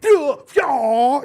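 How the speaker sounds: high, loud hammed-up duh yeah; mock ditzy yes. Drunk girl showing off her tissue trick, hammed-up squeal. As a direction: squeal it like it's obvious. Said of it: "She is like".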